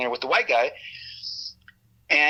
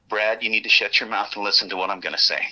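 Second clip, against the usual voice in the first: very dead, not yelled; 3 semitones lower than usual. Retold or imitated. Agent ordering Brad to listen, deadpan, no yelling. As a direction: imitate a deadpan, controlled warning. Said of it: "when he said that very dead, not, he didn't yell".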